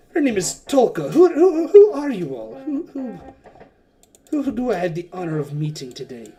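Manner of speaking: pepper them with eager questions; boisterous host. Acted. Wakanga introduces Tolka and asks who the others are, boisterously. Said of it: "He's like".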